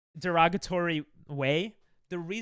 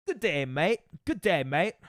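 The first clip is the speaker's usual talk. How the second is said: put-on toned-down Aussie accent at ordinary pitch; attempted Australian accent. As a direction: try the Aussie greeting more evenly. Same greeting retried in lower voice.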